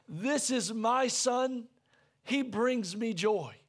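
each word laid down slowly and gently; slow, tender, savouring every word; slow tender declaration. Retold or imitated. Preacher voicing the Father's words over his Son, slow and tender. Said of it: "He just says".

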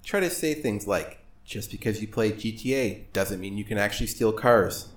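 mock-epic speech rising to a yell; roaring rallying speech. Mock motivational speech over music.

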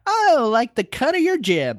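put-on high, huffy old-man insult; high-pitched ornery geezer; Master Roshi. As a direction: hurl it like a high-voiced old coot. Roshi picking a quarrel.

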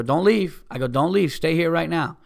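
urgent-sounding retold demand; retold command. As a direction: act out stopping someone from walking off. Retold order to women walking away.

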